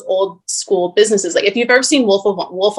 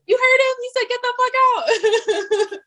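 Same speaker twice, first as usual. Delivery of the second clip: high laughing taunt, slow; slower than usual. Retold or imitated. Saleswoman taunting a kicked-out customer while laughing. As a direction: crow at the customer through laughter.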